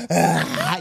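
gemido largo de llanto imitado. Retold or imitated. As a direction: imita un berrido de niño llorando. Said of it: "llorando, pero así". (llanto fingido, alargado)

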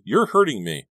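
high, loud, pained plea; distressed cry of protest; pleading. Acted. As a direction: plead as if being hurt. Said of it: "she pleaded".

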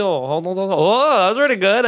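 usual speaking voice

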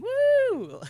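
high, loud sarcastic woo; hammed-up celebration of paperwork; mock cheer. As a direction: whoop it with fake enthusiasm. Mock cheer for grant writing.

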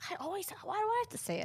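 high, soft, fast crying protest; tearful complaint. Real, not acted. Sister crying after saying their mom passed away. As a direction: sob out the complaint.

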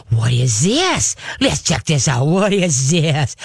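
slow, drawn-out wondering; intrigued, inviting the dog to look; fascinated coaxing question; playful curious. Shown as a demonstration. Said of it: "you gotta laugh with your voice".

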